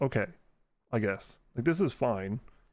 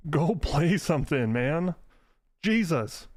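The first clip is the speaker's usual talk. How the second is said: much higher and louder, fed-up ranting; exasperated rant; 4 semitones higher, 3 dB louder than usual. Retold or imitated. Ranting at a friend who AFKs Fortnite, loud and exasperated. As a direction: throw your hands up at the whole game. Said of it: "And I'm like".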